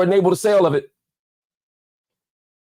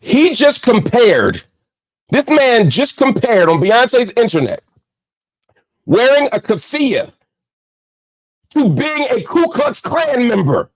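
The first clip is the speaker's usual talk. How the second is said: real indignant disbelief, louder; outraged; 6 dB louder than usual. Real, not acted. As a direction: hammer each word, stunned and furious. Outraged at the comparison.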